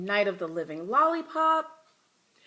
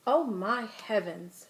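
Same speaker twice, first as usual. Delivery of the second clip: shocked cry; slower than usual. Acted. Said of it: "she cried".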